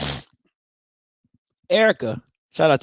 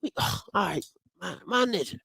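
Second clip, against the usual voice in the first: imitating A and T; 2 semitones higher, 8 dB quieter, faster than usual. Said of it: "A and T like".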